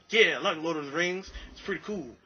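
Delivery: lightly mimicked odd speech; a hint of the brother's weird pattern; talking like him. Answering the brother in his own way, lightly imitated. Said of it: "I just started talking like him".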